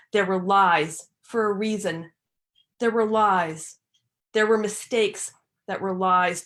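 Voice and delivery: measured lines with deliberate pauses; incantatory poetry reading, each phrase set apart; poem recitation. Acted. Reads her poem aloud.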